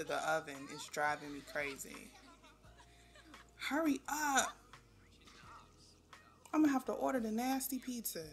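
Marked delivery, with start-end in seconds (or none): 3.6-8.2 urgent whisper. Real, not acted. Urging the sims to hurry, whispered.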